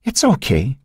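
high, hushed reassurance; gentle comfort in the dark; reassuring. A narrator's reading. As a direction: soothe a frightened girl. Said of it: "he assured her".

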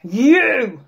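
gleeful wolf shout; cried. A narrator's reading. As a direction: pounce on the word. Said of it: "cried the wolf".

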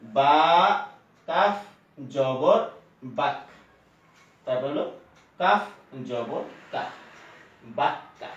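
বাক্কা with the kk held double; spelling it out, then the final বাক্কা said almost under the breath; doubled consonant demo. Shown as a demonstration. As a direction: sound out বাক্কা, pressing the doubled k. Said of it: "এটাকে পড়া লাগবে".

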